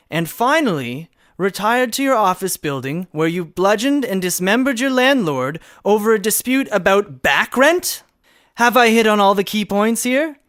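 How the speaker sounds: rising to a loud, high accusatory climax; building accusation. Acted. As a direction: build from steady to booming triumph.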